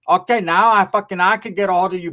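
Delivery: loud mock telling-off; irate aunt imitated. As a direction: scold loudly as the fed-up aunt. Angry aunt acted out.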